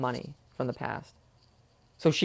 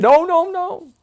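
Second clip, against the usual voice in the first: firm refusal; 12 semitones higher, 8 dB louder, slower than usual. Retold or imitated. Cops refusing, imitated.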